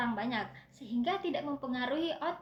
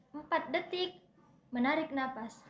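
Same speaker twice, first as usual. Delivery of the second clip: breathing demo. Shown as a demonstration. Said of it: "di sini saya akan praktekkan".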